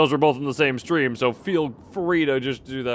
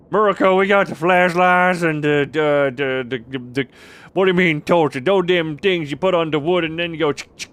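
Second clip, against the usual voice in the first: loud, raised, hammed-up American yokel; mock 'Murica patriot; 3 semitones higher, 6 dB louder than usual. Streamer mocking American talk about flashlights and torches, loud 'Murica voice. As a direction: holler it like a proud, indignant backwoods American.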